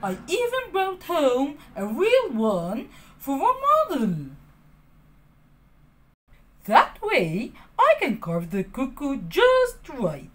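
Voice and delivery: a hint of a kindly old man; lightly voiced old carpenter. Geppetto explaining the clock to Pinocchio, lightly voiced. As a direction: explain it like a patient old father. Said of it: "Geppetto replied".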